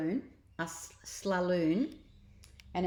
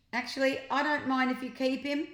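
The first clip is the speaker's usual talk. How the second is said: muttered; 7 semitones higher, 3 dB louder than usual. A narrator's reading. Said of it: "muttered the beard-, bearded deputy head".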